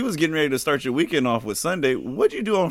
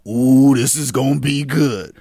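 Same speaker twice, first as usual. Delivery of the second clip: gleeful anticipation; 2 semitones lower, 5 dB louder, slower than usual. Retold or imitated. Anticipating juicy gossip.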